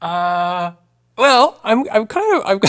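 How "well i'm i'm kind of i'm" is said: high, giggly and embarrassed; giggling. Real, not acted. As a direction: giggle through the confession. Giggling about getting into Pilates.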